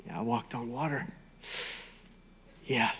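low, soft, offhand boast; mock casual bragging. Peter taking his song and dance town to town, casually boastful. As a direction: brag quietly as if it were nothing. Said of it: "gonna be his song and dance".

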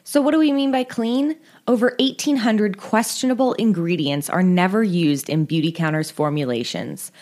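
upbeat, loud sponsor read. Acted. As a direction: sell it like a podcast ad.

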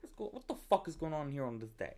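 mock outraged American accent. Teenage girl retelling a ghost scare, mock American accent. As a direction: ham up an American sitcom line. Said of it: "talking in an American accent".

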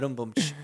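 mouthed drum sting after a pun; quick vocal ba-dum-tsh; spoken rimshot. Retold or imitated. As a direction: imitate a corny joke's rimshot. Mocks a pun as joke.

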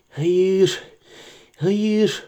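a hint of a wheedling creature; Gollum voice. Gollum speaks.

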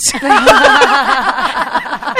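loud burst of laughter; big laugh. Real, not acted. Laughs at own story.

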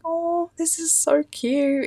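high, slow squeal over something cute; gushing delight. Retold or imitated. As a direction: coo over a sweet card. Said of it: "I'm like".

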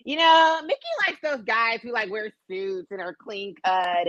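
high, mocking imitation of Mickey; mimicking a friend. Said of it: "be like".

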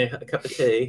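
a hint of an English accent. Host tries out tea phrase, mock English accent. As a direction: lightly mimic an English accent. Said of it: "does it sound very English".

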